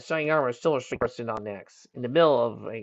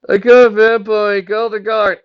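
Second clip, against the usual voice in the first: loud, high, slow cry for help; alarmed shout; 10 semitones higher, 13 dB louder, slower than usual. Acted. Teen clerk calling for the guard, alarmed shout.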